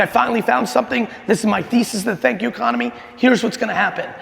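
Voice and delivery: fast, eager rush of a man who thinks he's cracked it; retelling his own excitement, lively and quick; pumped. Retold or imitated. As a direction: replay the thrill of a big idea coming together. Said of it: "I'm, like, now pumped".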